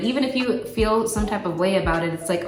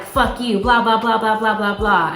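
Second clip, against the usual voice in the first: mock angry outburst; 6 dB louder than usual. Acted angry outburst at partner.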